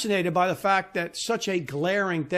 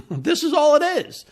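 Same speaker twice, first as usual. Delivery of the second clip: breaks into a laugh, higher and louder; 8 semitones higher, 5 dB louder than usual. Real, not acted. Man laughing at his own Monty Python retelling, amused. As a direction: laugh it out at the absurdity.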